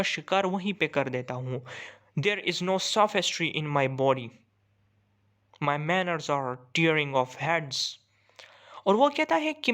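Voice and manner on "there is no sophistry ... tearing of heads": slow, measured poetry reading; poem recitation. Acted. Teacher reading a hawk's monologue to students, measured recitation. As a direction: read the verse out slowly, phrase by phrase.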